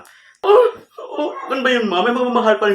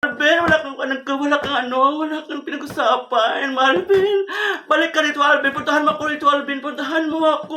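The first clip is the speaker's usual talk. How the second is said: tag; 4 semitones higher than usual. Acted. Begging boyfriend to come back.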